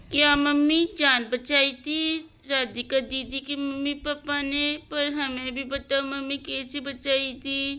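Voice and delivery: put-on eager children. Children begging their mother to tell the story, eager pleading.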